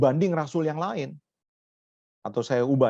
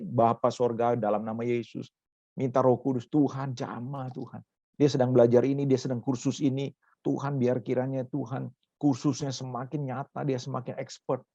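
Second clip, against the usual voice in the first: demonstrated prayer. Shown as a demonstration. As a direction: model an earnest prayer for a child. Models a parent's prayer. (suara doa yang rendah dan lembut)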